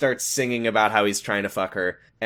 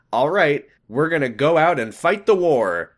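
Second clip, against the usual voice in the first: put-on eager girl voice; 4 semitones higher, 5 dB louder than usual. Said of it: "what she was thinking".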